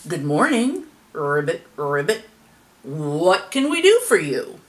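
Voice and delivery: formal frog greeting with low croaked ribbits; chief frog. A narrator's reading. Chief frog welcoming a strange visitor, croaky and formal. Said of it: "The chief frog spoke up".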